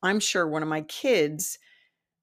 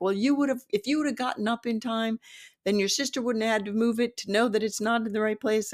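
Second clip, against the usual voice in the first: higher, run-on mock scolding; retold argument; 4 semitones higher, faster than usual. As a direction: imitate a parent arguing back at the kid. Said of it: "it became a whole hullabaloo".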